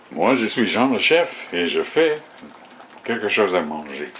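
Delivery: a light French chef voice, said in French; Jean le Chef French accent. Pretend. Chef in his kitchen introducing himself to viewers, light French accent. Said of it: "put on my French accent and be Jean le Chef".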